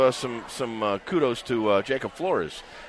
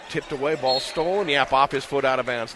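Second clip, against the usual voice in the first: excited; 3 semitones higher than usual. Real, not acted. Steal called live on radio.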